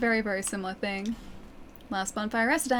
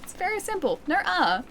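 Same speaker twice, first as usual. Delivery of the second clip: emphatic; 8 semitones higher than usual. Real, not acted. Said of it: "I don't say nor".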